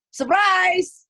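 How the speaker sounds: high, loud drawn-out reveal; mock surprise shout. Mother revealing her firstborn's name to the crowd, mock surprise shout.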